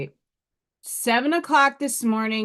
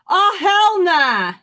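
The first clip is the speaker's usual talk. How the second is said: slow, higher, louder "hell nah"; sassy refusal; 7 semitones higher, 7 dB louder, slower than usual. Real, not acted. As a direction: sass it, drawn out. Dismissing love readings.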